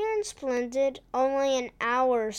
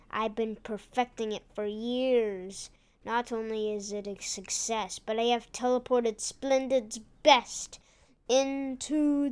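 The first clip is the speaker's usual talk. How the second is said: lightly voiced scheming villain; villain gloating over captives, lightly played; bad guy voice. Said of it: "He said in a bad guy voice".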